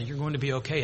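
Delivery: soft comforting voice; gentle reassurance. Acted. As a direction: reassure a survivor softly. Comforting traumatized survivors.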